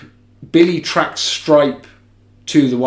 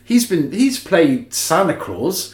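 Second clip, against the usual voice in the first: casual cop; 6 semitones higher, slower than usual. Retold or imitated. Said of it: "one of the coppers is just like".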